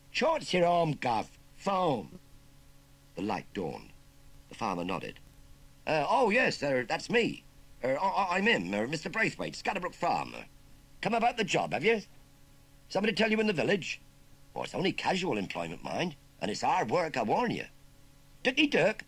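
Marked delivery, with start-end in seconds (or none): 0.1-2.2 high, loud cheeky Cockney lad; chirpy London street kid rattling off slang; perky Cockney urchin. Acted. Urchin asks farmer about the job in Cockney. 5.9-17.6 high, loud stammering country farmer; a fluster of ums, caught off guard. Acted. Farmer stammers to the urchin, flustered and eager. 18.4-19.0 high, loud chirpy Cockney lad. Acted. Urchin chirps back to the farmer in Cockney. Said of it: "chirped the boy".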